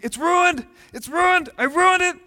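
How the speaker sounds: put-on high, loud wailing child; frantic six-year-old. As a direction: wail it like a little girl whose drawing is ruined. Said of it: "she goes ballistic".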